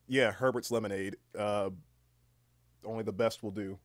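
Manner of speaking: understated Southern slogan read; weird southern voice. Pretend. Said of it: "saying it in this weird southern voice".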